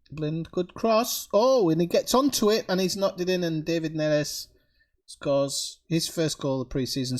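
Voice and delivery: excited play-by-play call; sportscaster voice. Acted. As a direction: commentate the goal live. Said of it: "I can do my sportscaster voice".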